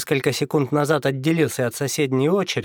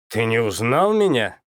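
surprised. Acted. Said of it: "удивился игрок".

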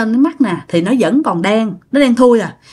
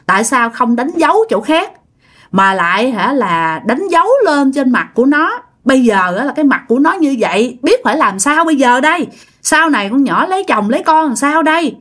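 scolding; 4 semitones higher than usual. Retold or imitated. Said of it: "cái bả chửi".

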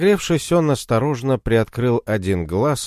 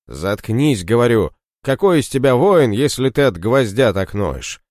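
angry scolding; 3 semitones higher, 3 dB louder than usual. Acted. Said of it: "Мороз разозлился".

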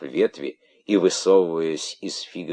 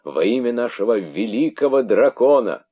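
louder, higher hissing oath; old snakes hissing loyalty; hissing proclamation; 6 semitones higher, 7 dB louder than usual. Acted. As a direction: hiss out the oath. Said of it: "зашипели старые удавы".

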